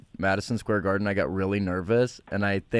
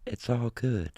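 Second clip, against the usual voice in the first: robot voice; 2 semitones higher, 4 dB quieter, slower than usual. Pretend. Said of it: "in the robot voice".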